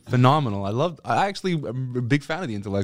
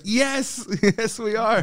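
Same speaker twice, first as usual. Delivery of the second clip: sarcastic; 10 semitones higher, much slower than usual. Retold or imitated. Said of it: "I'm like".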